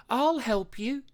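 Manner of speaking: high, kind sea unicorn voice; calling out. A narrator's reading. Sea unicorn calling to the fallen pup, high and kind. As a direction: reach out to him gently. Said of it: "she called".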